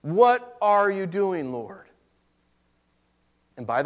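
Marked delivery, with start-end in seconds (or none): 0.0-1.9 slow anguished question. Retold or imitated. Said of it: "I was so angry".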